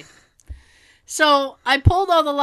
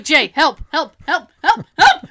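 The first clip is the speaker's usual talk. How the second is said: retold call for help, rising louder; mock cry for help; 3 semitones higher, 7 dB louder than usual. Pinned under the Grinch, mock calling husband for help. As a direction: call out to Jay, hammed up. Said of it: "I was like".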